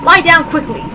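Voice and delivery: high, loud, stammering command; frantic, make him stop; panicked order. Acted. Doctor orders Kanon to lie back down, panicked.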